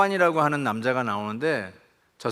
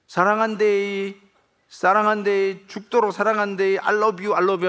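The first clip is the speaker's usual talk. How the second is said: acted Gyeongsang call after him; 6 semitones higher, 3 dB louder than usual. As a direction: call after the fleeing son with longing. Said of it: "뒤에서 이렇게 얘기해요". (달아나는 아들 등 뒤에 외치는 경상도 아버지, 애절하게)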